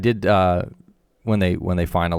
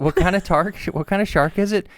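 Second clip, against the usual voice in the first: put-on New York accent; 11 semitones higher than usual. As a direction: bark it like a New York tough. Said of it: "thick New York accent".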